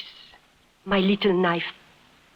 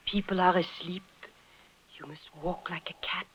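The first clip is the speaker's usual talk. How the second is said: much softer, barely there; hushed; 7 dB quieter than usual. Acted. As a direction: hush so the sleepers don't wake. Sneaking past sleeping tent.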